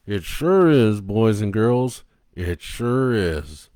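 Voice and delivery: slow, loud drawn-out host; creepy host. Acted. Captain Kangaroo agreeing with the puppet, slow and creepy. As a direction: savour each word like a sinister host.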